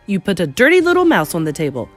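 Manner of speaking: indignant father demanding answers. Acted. Angry father confronts the grandmother.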